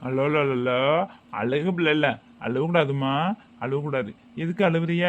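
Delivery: low, soft coaxing; soothing. Acted. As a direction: soothe a crying pupil. Teacher soothes a crying pupil.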